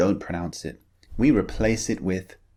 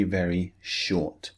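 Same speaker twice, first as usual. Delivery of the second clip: "very short" slowed and softer; stretched emphasis; 4 dB quieter, slower than usual. Shown as a demonstration. Teacher stressing how short the vowel is, slowly. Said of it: "the first one is very".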